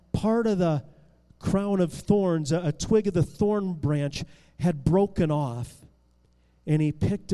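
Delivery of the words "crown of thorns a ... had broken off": ordinary delivery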